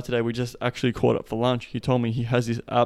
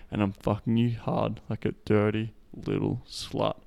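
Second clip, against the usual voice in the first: slow seductive example. Shown as a demonstration. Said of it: "I'm just saying that as an example".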